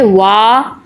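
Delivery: वा held for two beats only; वा with a briefly drawn-out aa; short madd. Shown as a demonstration. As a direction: give वा a modest lengthening. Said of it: "तो फिर तो कम लंबा करते".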